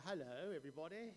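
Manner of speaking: quick, jokey English-accented greeting; playful English accent; put-on English accent. Shown as a demonstration. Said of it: "little bit of an English accent".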